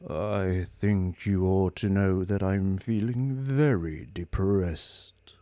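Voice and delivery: slow, weary robot voice; a robot sunk in gloom; low and hopeless. Acted. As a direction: drag every word out. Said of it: "Its voice was low and hopeless".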